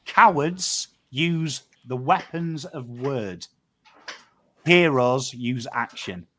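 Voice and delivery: slow, weighty pronouncement; solemn motto. Real, not acted. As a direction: deliver it like a closing creed, word by word. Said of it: "remember these words from Uncle Pom".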